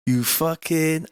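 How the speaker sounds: West Country slipping into Welsh; Welsh-sounding accent. Shown as a demonstration. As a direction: let the accent drift into Welsh. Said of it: "that's more like Welsh".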